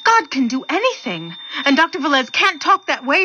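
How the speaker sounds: insistent, offended defense of faith; indignant protest. Acted. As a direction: protest it firmly. Nurse indignantly defends her God.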